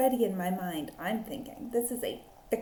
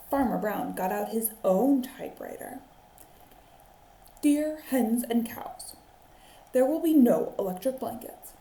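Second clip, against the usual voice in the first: put-on lively read-aloud for children; animated picture-book reading; story narration. A narrator's reading. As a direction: tell it like a teacher at story time.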